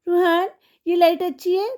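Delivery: high sugary put-on question to a child; mocking madam. Vlogger imitating madam asking her son, high mimicry. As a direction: ask it up high like a doting mother. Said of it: "बच्चे से पूछ रही है".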